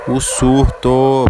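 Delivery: loud, drawn-out shout; startled shout. Real, not acted. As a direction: call out suddenly, stretching the words. Sudden reaction to dog outside.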